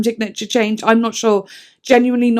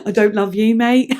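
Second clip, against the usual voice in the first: laughing. Retold or imitated. Voicing singer to fans, laughing.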